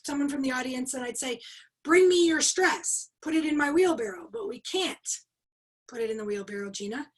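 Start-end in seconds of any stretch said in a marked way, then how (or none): 1.8-4.3 emphatic trainer summoning an audience volunteer; retold stage command. Calls volunteer up in retold demo. 4.3-7.1 mock audience protest. Voices audience's protest to trainer.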